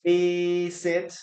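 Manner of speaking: teacher projecting "visit" with a long first syllable; two-syllable demo. Shown as a demonstration. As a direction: sound out "visit" in two clear beats. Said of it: "we have here two syllables".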